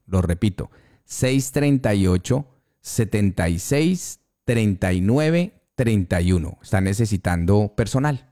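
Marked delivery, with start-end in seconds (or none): 1.0-6.6 phone number dictated slowly in groups; slow, careful digits for note-taking; slow dictation. Real, not acted. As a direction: pause after each group, lifting the endings. Host repeats number for listeners.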